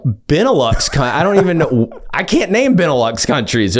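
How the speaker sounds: high, giggling disbelief; laughing confusion. Retold or imitated. Reacting to dad's Benelux advice, laughing and baffled. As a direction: laugh through not knowing the answer.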